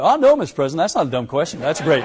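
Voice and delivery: whole crew reassuring the embarrassed president at once, hastily and high; hasty reassurance. Retold or imitated. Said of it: "we all do the same thing".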